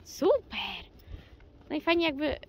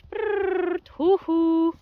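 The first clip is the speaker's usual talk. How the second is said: horse commands; 7 semitones higher, 8 dB louder, much slower than usual. Real, not acted. Calming horse.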